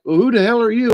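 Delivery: high-pitched huffy deer; startled deer voice. Retold or imitated. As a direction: play the surprised deer demanding who you are. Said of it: "she's like".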